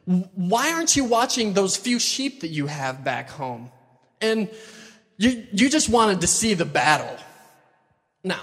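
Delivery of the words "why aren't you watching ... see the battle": scolding brother. Acted. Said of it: "He's like".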